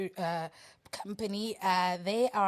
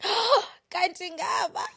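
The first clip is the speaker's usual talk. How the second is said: mock surprise; 10 semitones higher, 5 dB louder than usual. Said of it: "you'll be like".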